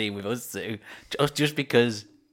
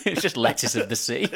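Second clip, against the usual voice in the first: laughing. Real, not acted. Laughing reply to co-host.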